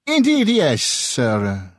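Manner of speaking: high, bright eager yes; lightly voiced excitable Italian; eager reply. A narrator's reading. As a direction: jump in keenly. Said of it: "the merchant replied".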